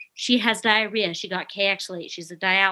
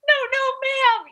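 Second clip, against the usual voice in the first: much higher, flustered new nurse pleading; new grad voice; 4 dB louder than usual. Retold or imitated. Colleague imitating a new grad nurse apologizing, high and flustered. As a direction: squeak it out like a nervous new grad. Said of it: "in her new grad voice".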